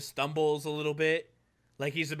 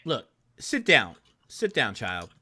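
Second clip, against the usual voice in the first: commanding; 4 semitones lower than usual. Acted. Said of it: "Dez, telling you to sit down".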